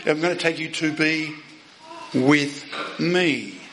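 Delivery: pause, then land deliberately on "with me"; "with me" delivered as the emphasised point; stress on WITH ME. Retold or imitated. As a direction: set "with me" apart after a short pause for emphasis. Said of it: "What's Jesus emphasising here?".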